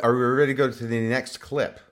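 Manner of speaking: slurred speech. Real, not acted. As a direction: slur the words like after a drink. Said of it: "Sorry, I'm slurring my words".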